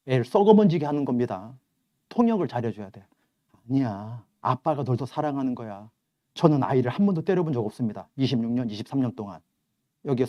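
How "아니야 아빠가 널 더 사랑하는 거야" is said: soft, tender reassurance; gentle father. Acted. Father quietly reassuring his child that dad loves her more, gentle.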